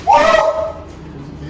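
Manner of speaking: high whooping cheer; excited whoop. Real, not acted. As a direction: whoop with joy. Celebrates the bread.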